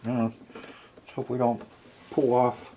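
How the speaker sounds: ordinary talk, nothing marked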